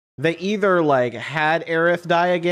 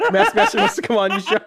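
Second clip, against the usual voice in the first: laughing; 6 semitones higher, faster than usual. Pretend. Quoting a DM message.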